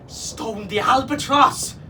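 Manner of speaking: high, loud, drawn-out screech; alarmed bird cry; parrot screech. A narrator's reading. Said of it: "he screeched".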